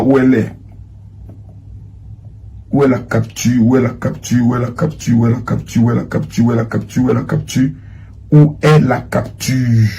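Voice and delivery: low, soft repetitive mumble while searching; absent-minded muttering. Real, not acted. Host hunting for a lost screenshot, muttering to himself. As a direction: mutter it over and over to yourself.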